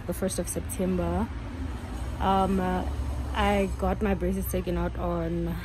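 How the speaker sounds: muffled behind surgical mask; speaking with covered mouth; through a face mask. Real, not acted. Seen 0: Surgical mask covers mouth and nose throughout; none in references.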